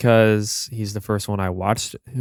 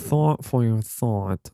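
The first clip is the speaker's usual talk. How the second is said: podcaster voice; 3 dB quieter, much slower than usual. Shown as a demonstration. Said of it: "the podcaster voice".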